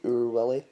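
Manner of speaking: "Oor" as a long oo sound, comic title style; Scots "Oor". Shown as a demonstration. Naming the Scottish comic strip, Scots "Oor". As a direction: lean into "Oor". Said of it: "if you were gonna say".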